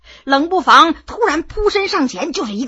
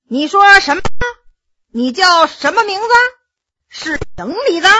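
mock hard of hearing; 5 semitones higher than usual. 老人捂着耳朵装聋向罗二爷发问. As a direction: play deaf to tease him. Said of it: "用手捂着耳朵问".

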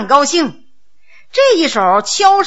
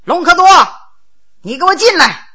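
calling out sharply, only a little raised; mild shout; 3 semitones higher, faster than usual. Acted. Prince summoning Longkeduo in from outside, mild shout. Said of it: "冲着外边喊了一声".

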